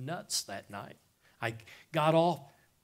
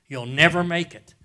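mock taunt; 3 semitones higher, 10 dB louder than usual. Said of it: "They said".

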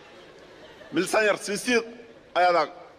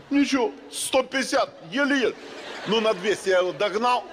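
shouting higher, building excitement; excited high shout; 5 semitones higher than usual. Acted. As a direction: pump it up like a racing driver. Acting out a chase.

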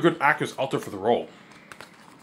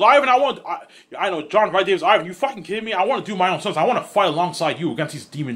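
indignant eagerness; 3 semitones higher than usual. Retold or imitated. Imagined actor insisting to Ivan on doing his own stunts, indignant eagerness. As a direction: play an actor eagerly protesting.

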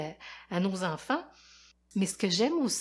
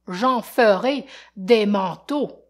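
menacing line; 10 dB louder, slower than usual. Acted. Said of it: "dit celui-ci".

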